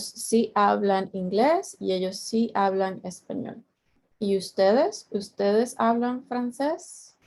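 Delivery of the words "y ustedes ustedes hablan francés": slow question, voice lifting on "ustedes" and "francés"; question intonation. Shown as a demonstration. Teacher asking the class, question tune rising on "ustedes" and "francés". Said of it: "my intonation changes a little bit".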